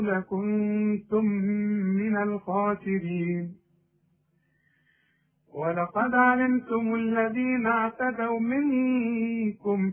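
slow, measured tajweed reading; تلاوة قرآن بطيئة مجودة; Quran recitation. Acted. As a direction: recite slowly for the student to follow. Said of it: "اقرا معايا".

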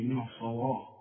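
student's faulty من الصواعق; mock wrong reading. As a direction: imitate the mistaken من الصواعق. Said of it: "اوعى تقول لي".

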